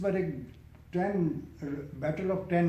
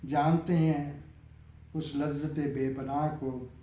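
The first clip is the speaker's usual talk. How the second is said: raised opening settling into measured verse; poem recitation. Acted. Poet reciting a nazm on death's game, measured recitation. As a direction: start lifted, then let each line come down with pauses.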